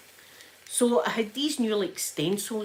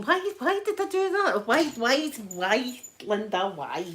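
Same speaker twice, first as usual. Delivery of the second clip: exasperated self-scolding; 3 semitones higher than usual. Retold or imitated. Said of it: "now I'm thinking".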